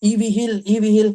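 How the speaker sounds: a loud call of the name across the hall; calling out loudly. Retold or imitated. A man in the hall loudly calling for EV Hill. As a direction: shout the name so the whole hall hears. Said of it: "उसने जोर-जोर से चिल्लाया".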